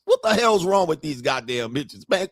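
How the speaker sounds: usual speaking voice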